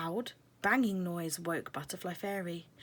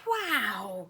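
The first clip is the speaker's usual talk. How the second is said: gasp; 2 semitones higher, 5 dB louder than usual. Acted. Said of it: "gasped the two fairies".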